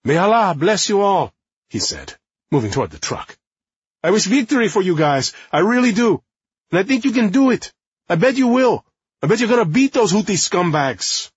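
high, loud, gushing flattery; laying it on thick. Acted. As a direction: overdo the cheerful praise. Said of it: "lay it on thick".

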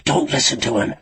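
urgent call to her. A narrator's reading. Frankie calls to Lucy against the Nightbird, calling out. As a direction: call out a warning over the taunts. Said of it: "Frankie called to her".

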